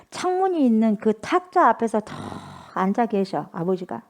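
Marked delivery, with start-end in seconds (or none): none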